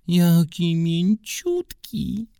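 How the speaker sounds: very high, drawn-out squeal; squeaking little girl; squeaky little girl. Acted. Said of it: "zapiszczała Ela".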